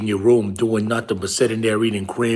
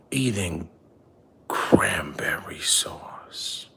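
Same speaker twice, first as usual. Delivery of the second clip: hushed lecture. Acted. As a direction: lean in close and drop to a whisper. Dad drops to hushed lecture.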